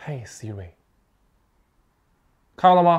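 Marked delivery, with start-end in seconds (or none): 0.1-0.7 hushed, very low and soft voice. Testing a HomePod Mini's response to the wake phrase, a little quieter. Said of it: "我现在把声音稍微放得小一点".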